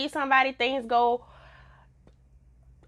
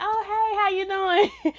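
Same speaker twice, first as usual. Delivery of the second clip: imitating a high, sing-out hello; mock friendly greeting; 7 semitones higher than usual. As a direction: greet him like the polite friends, pitched up. Acts out friends greeting the man.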